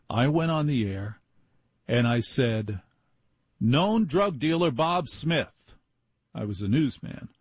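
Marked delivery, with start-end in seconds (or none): 3.6-5.8 radio news read. Retold or imitated. Recalls his on-air news line.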